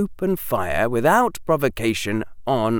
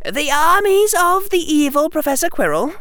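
put-on high, louder girl, indignant; a little angry; 6 dB louder than usual. A narrator's reading. Hermione objects to the evil professor's armies, a little angry. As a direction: push it out high with mild anger. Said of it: "Her voice was a little angry".

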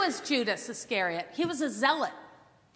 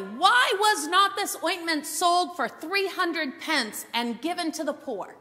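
loud, pompous Judas; 5 semitones higher, 4 dB louder than usual. Acted. Judas publicly reprimanding Mary, loud and pompous. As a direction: declaim it high and loud, drawing out the words. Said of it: "says loudly".

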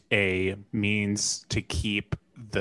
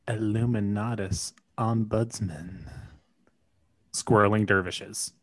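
lightly sultry reading; a hint of put-on sexiness; OnlyFans voice. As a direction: read it as a mild mock seduction. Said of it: "in your best OnlyFans voice".

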